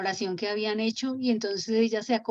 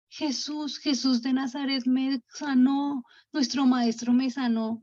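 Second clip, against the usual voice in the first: higher, slowed voice imitating tearful relief; retold tearful gratitude; 4 semitones higher, slower than usual. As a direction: act out being moved to tears, lightly. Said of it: "él empieza a llorar y a decir". (llanto agradecido, levemente actuado)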